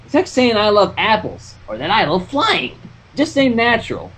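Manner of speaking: lightly voiced country mare; Applejack voice.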